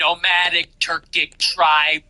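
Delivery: slow, drawn-out mock of a dramatic pause; mocking her delivery. Host mocking the commentator's theatrical delivery, slow and drawn out. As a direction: hang on every word like she does. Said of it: "You ever notice how she does that".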